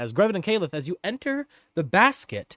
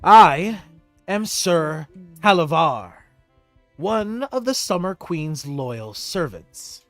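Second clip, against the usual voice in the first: noble knight. Acted. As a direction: introduce yourself with dignity. NPC introduces himself.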